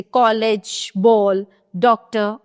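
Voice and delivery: कॉलेज, बॉल, डॉक्टर with a vowel between "a" and "o"; rounded open O. Shown as a demonstration. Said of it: "अ तथा ओ के बीच की ध्वनि". (कॉलेज, बॉल, डॉक्टर में अ और ओ के बीच की ध्वनि बोलें)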